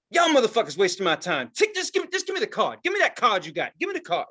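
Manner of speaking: impatient demand, pitch jumping high; mock pushy woman. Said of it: "And she's like".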